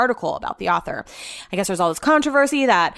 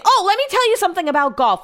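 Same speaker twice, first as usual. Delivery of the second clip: caller droning on about golf, pitched higher; higher, a little louder, imitating the chatty caller; chatty old caller; 10 semitones higher, 3 dB louder, faster than usual. Mocking the old caller who wouldn't stop talking, chatty voice.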